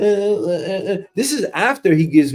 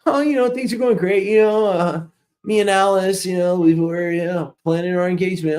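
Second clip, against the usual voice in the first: eager coworker; 2 semitones higher than usual. Retold or imitated. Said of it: "coworker Bobby voiced".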